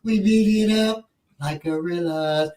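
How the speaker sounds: drawn-out quote of the line; slow, deliberate recital of a favorite lyric; savored lyric. Retold or imitated. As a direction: stretch the words out, relishing each.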